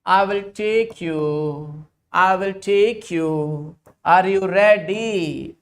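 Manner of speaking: lightly voiced pleading suitor, slow; voicing a lovesick base. Teacher voicing the base begging the acidic H, lightly pleading. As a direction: coax it in like a mild lovesick plea. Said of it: "So this base will say".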